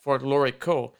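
Folklorico with a hard American r, for-KLOR-ee-ko; Michigan-accented Folklorico; Michigan twang. Retold or imitated. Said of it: "I got my Michigan twang going on".

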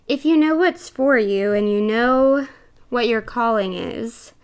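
a bit breathless while talking; short of breath between words. Real, not acted. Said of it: "I'm a little out of breath".

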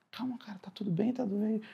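soft whispered reassurance; calm him down in a hush; whispered comfort to a crying spectator; soothing whisper. Retold or imitated. Director soothing upset spectator.

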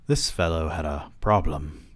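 lightly put-on British accent. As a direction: read him with a hint of British. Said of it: "giving this man a British accent".

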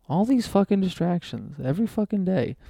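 high, strained rant at distractions; exasperated rant. Real, not acted. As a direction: throw your hands up, fed up with it all. Frustrated rant about phone.

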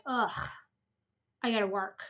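weary sighing groan; dramatic sigh. Retold or imitated. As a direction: sigh it out, dragging. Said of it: "I would have this big sigh of".

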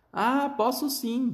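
bem agudo e lento, vozinha de menino minúsculo; vozinha esganiçada. A narrator's reading. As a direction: estique a vozinha fina. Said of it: "disse a vozinha esganiçada do Miguel". (menino minúsculo retrucando aos pais, esganiçado)

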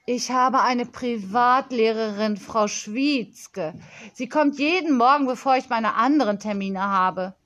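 lightly voiced confident child; a touch of self-important girl; bossy young girl. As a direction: hand out plans like a little boss.

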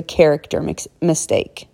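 stumbling on "mistake" as "mix-", then correcting it; tongue slip. Real, not acted. Podcaster explaining types of mistakes fumbles "mistake" as "mix-", tongue slip. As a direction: trip into "mix-", break off, say "mistake". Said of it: "I kinda mumbled there".

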